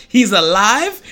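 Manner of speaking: loud, high, overjoyed ranting; excited Rafiki. Retold or imitated. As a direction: burst out with joy you can't hold in. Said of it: "can't refrain from expressing that".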